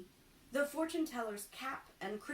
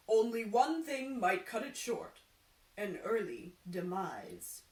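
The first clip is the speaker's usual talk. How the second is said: fortune teller voice; 5 dB louder than usual. Acted.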